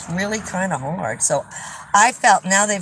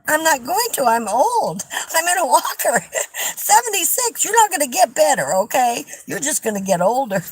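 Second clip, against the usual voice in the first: higher, giggling through the comeback; amused, louder punchline with laughter; laughing retort; 9 semitones higher, 3 dB louder than usual. Retold or imitated. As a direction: laugh while delivering the blunt reply. Retelling her own blunt reply.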